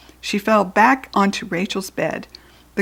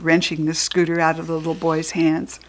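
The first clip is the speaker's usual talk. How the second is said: plain reading voice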